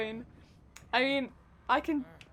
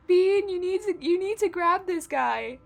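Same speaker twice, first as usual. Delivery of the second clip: raging gamer; 5 semitones higher, 5 dB louder than usual. Real, not acted. Urging killer to catch survivor.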